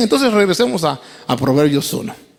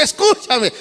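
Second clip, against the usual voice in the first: softer second call; 4 semitones higher than usual. Acted. Wisdom repeating her call to the fool, a gentler plea. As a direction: let the second call fall back. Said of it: "la sabiduría le grita".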